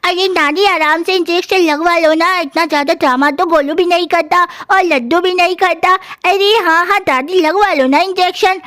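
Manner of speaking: lightly put-on child's voice; coaxing child. Grandchild urging grandma to take the injection, coaxing child. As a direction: play a kid chiding a grandparent.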